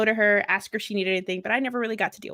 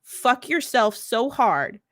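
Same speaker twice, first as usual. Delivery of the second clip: fake-nice insult; much slower than usual. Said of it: "say this as nicely as I can".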